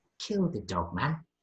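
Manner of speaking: whispered, close and quiet. Voicing a vampire who whispers an order into a player's ear: whispering in someone's ear. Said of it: "she just whispers in your ear".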